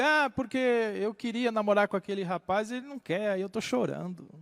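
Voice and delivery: mock self-pity, trailing off softly; mock sorrowful. Young person explains crying over unrequited love, mock sorrowful. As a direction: lightly imitate a lovesick youngster. Imitates a lovesick young crier.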